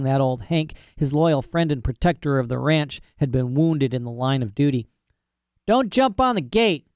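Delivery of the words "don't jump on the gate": higher, sleepy yawned command; yawning. Acted. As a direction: say it through a yawn. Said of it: "he yawned".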